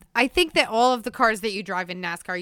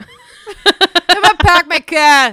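hammed-up Boston accent through laughter; fake Boston accent; 7 semitones higher, 12 dB louder than usual. Joining the co-host's accent game, exaggerated Boston accent. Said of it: "I can only do it if I'm saying".

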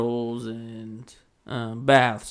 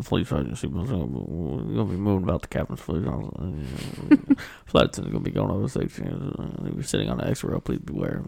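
lower, lightly voiced pilot intercom announcement; pilot cockpit headset; 5 semitones lower than usual. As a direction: mumble it like a captain over the cabin speaker. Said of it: "Sound like a pilot".

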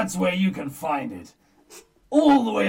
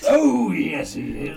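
panto crowd callback; 4 semitones higher, 6 dB louder than usual. Pretend. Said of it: "That's how pantomimes go".

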